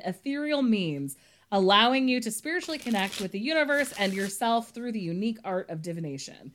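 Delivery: steady read-aloud blurb voice; reading a quote. Acted. Reads publisher blurb aloud.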